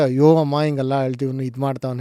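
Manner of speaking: ordinary delivery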